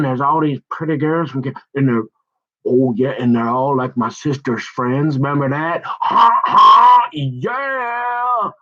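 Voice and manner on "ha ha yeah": put-on high, loud childish whoop; excited cheer.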